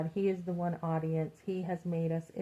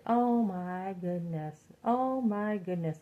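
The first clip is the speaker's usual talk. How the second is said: slow, drawn-out sympathetic gasp; slow dismay; 2 semitones higher, slower than usual. Retold or imitated. Older man reacting slowly to her troubles. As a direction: stretch each word out in shock. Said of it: "And he's like".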